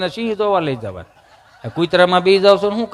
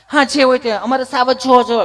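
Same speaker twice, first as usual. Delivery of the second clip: higher, prissy mock city Gujarati; affected city speaker; 5 semitones higher than usual. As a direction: brush off the correction in an affected voice. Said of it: "ચીપી ચીપીને Gujarati બોલે".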